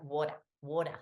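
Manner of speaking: water with the final R dropped; Aussie pronunciation. Shown as a demonstration. Host showing how Aussies say water, no final R in water. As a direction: say water loosely, Australian style without R. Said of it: "we're like".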